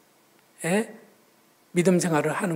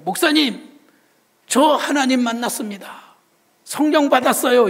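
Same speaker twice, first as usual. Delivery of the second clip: higher and louder, thrilled announcement; excited report; 6 semitones higher, 5 dB louder than usual. Retold or imitated. Deacon tells the pastor he met God, thrilled and loud. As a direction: burst out the good news to the pastor. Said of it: "저에게 이렇게 말해요".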